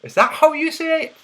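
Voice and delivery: high-pitched put-on Scottish accent; squeaky, questioning Scottish accent. Shown as a demonstration. Streamer checking his pronunciation, Scottish accent. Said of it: "That was my Scottish accent".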